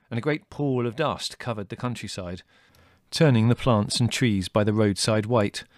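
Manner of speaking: plain reading voice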